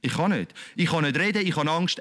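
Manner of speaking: mild frightened objection; fearful Moses. Retold or imitated. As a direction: shrink back like scared Moses. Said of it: "Und der Mose hat gesagt".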